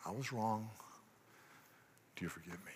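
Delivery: barely gets the words out, soft; a soft, halting admission; choked confession. Shown as a demonstration. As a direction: swallow the words as if stuck. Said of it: "can't get it out".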